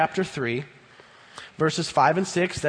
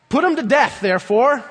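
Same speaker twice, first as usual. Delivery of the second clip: forceful command; 7 semitones higher, 5 dB louder than usual. Acted. Preacher repeating the command.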